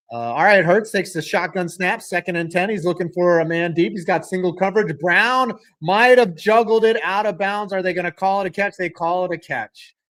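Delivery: quick running football commentary; brisk sportscaster play call; live play-by-play. Real, not acted. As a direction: call the action as it happens.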